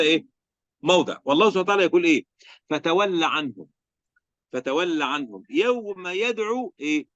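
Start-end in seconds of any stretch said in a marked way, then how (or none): 2.7-7.1 slow, drawn-out chanted recitation; Quran recitation. Acted. Teacher recites the verse to students, slow chanted recitation. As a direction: intone the verse slowly, stretching the long vowels.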